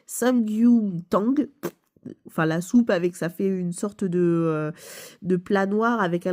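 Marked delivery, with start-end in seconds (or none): 0.0-1.5 samgyuntang spelled out slowly, syllable by syllable; unsure Korean dish name. Real, not acted. YouTuber explaining the game to viewers, slowly sounding out samgyuntang. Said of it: "excusez-moi de la prononciation".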